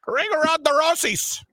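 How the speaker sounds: Gil. Retold or imitated. Gil names the song he would sing, high character voice. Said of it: "that's Gil over there".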